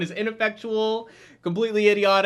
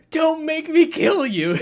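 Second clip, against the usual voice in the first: mock threat; 7 semitones higher, 4 dB louder, slower than usual. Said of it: "she says".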